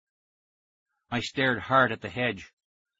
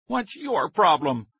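high, slow angry demand; higher, slower furious shout; 6 semitones higher, slower than usual. A narrator's reading. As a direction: bark it at the boy. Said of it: "Billy Wilbur shouted angrily".

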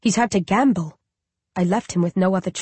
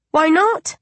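put-on high, innocent little child asking; a small uncanny baby calling its mother; 9 semitones higher, 3 dB louder than usual. Undead baby asks its grieving mother, high and childlike.

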